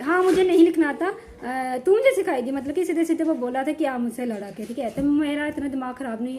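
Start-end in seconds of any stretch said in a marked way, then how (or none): 0.0-2.5 taunting quote. Retold or imitated. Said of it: "उसने बोला कि".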